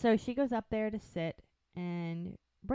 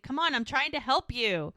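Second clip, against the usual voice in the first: insistent coaxing; 5 semitones higher, 5 dB louder than usual. Retold or imitated. Acted tussle, insisting on helping.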